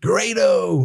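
slow, high-pitched welcome building to the name; announcer introduction. Retold or imitated. Friend introducing Grado at a party, announcer-style imitation. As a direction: mimic a ring introduction, high and drawn out.

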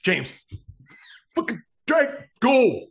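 high-pitched, urgent cry for help; panicked urging. Acted. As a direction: play a spooked worker sending someone running. Panicked worker yells to James.

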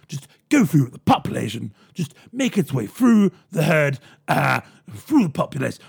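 blustering, halting mock Boris, slow; hint of a dithering Boris on TV; Boris Johnson impression. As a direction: stumble through it like a bumbling posh politician. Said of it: "went on T V and went".

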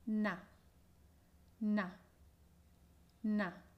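na said with an open, clear a. Shown as a demonstration. Teacher models na with the open a. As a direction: open wide on na. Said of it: "recuerda la A abierta".

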